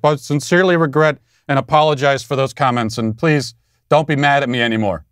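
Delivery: lightly voiced mock-sincere apology; a touch of simpering fake contrition. Host mocking a public apology to the media, mild mock-sincere tone. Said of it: "sending an email to someone in the media saying".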